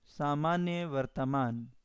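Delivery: सामान्य वर्तमान said slowly, each word drawn out for note-taking; slow, spelled-out term. Shown as a demonstration. Teacher repeating the term slowly so the class can copy it. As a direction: give the students time to write सामान्य वर्तमान.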